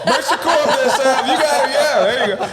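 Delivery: hyped-up coach calling out encouragement; mock coach shouting. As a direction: cheer him on like a trainer. Coaching via imagined bullhorn.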